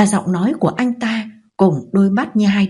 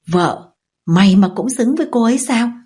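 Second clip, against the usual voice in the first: a touch of mocking scorn, pitched up; scornful sneer; 5 semitones higher than usual. Brother mocking the husband's claim, mild scornful sneer. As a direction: sneer the word back at him. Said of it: "Thế Trường cười khẩy".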